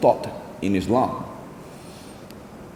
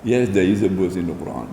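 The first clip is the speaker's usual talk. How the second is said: lower-pitched, understated humble answer; humble reply; 4 semitones lower than usual. Retold or imitated. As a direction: retell a modest, unprovoked reply. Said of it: "in a very humble way".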